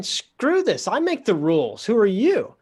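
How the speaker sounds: mock the rule-breaker's scorn; defiant scoff. Imagined fraudster brushing off the rules, loudly.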